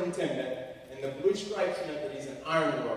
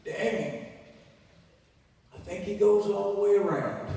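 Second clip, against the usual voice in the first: a hint of an astonished redneck; lightly voiced redneck; 5 semitones higher than usual. Redneck sizing up a big trash picker, lightly voiced amazement. Acts redneck staring at his size.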